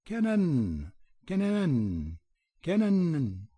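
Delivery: high, piercing bird call; a bird's shrill warning call, repeated; harsh pheasant cry. A narrator's reading. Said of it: "heard a harsh cry".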